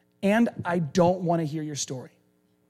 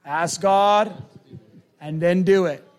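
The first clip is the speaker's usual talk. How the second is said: emphatic recap; 4 dB louder, slower than usual. Shown as a demonstration. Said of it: "what are the three?".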